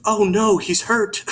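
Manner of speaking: put-on high, loud little-kid alarm; little girl voice. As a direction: squeak it out like a worried small child. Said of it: "and she goes".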